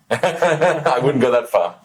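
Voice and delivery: laughing through the words, slowed. Real, not acted. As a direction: chuckle it out, bashful. Modest reply to a compliment.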